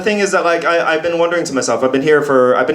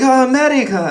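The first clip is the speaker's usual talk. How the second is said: imitating himself; 12 semitones higher, 3 dB louder than usual. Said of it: "and I was like".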